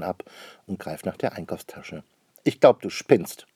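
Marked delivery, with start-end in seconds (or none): 2.4-3.5 slow, louder exasperated retort; exasperated outburst. A narrator's reading. Sister snaps at her brother over the bag, exasperated outburst. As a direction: let the annoyance out. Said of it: "ruft Anne-Rose".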